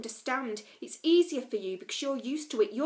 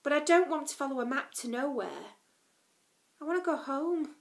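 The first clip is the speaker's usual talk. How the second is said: loud, higher, bitter complaining; angry rant; 5 semitones higher, 6 dB louder than usual. A narrator's reading. Lila ranting about mosquitoes and hunger. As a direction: pour out the frustration.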